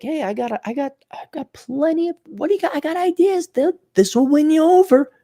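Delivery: pushy hustler selling his ideas; mock eager salesman. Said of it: "But I was like".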